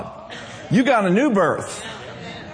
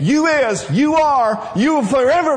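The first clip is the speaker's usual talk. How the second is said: preaching shout; 5 semitones higher, 4 dB louder than usual. Real, not acted.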